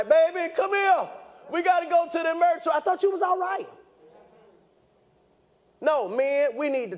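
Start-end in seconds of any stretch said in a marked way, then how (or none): 0.0-2.7 high, fast, urgent plea; urgent panic. Retold or imitated. Retold panic calling wife. 2.7-3.7 incredulous wife. Retold or imitated. Wife's retort voiced.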